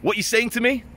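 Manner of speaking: high, put-on Eastern European accent; guard taking the piss, high Eastern European voice; mocking Eastern European guard. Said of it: "starts instantly taking the piss".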